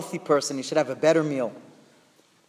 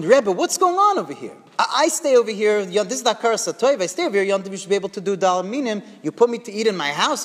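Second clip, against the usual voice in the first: raised, agitated retold protest; acted-out bewildered complaint; lost it; 3 semitones higher than usual. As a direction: protest indignantly to the rebbe, voice pitched up. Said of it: "He's lost it".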